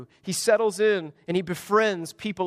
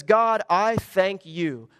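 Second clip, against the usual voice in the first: slow, self-satisfied prayer voice; hint of a pompous Pharisee praying slowly; much slower than usual. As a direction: pray like a smug Pharisee.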